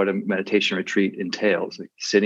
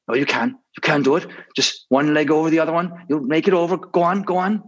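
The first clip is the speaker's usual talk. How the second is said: high, coaxing cartoon donkey voice; encouraging donkey; 7 semitones higher than usual. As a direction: cheer him on like a supportive donkey. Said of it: "the other donkey, who's trying to give him some support".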